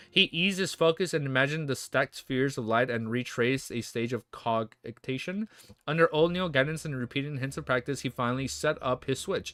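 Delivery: steady read-aloud novel narration; audiobook-style reading; story narration. Acted. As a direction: read the chapter out to the chat. Streamer reads novel aloud.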